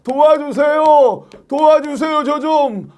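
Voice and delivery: high, drawn-out plea for alms; begging. Acted. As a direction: call out like a street beggar. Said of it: "이게 구걸하니라고".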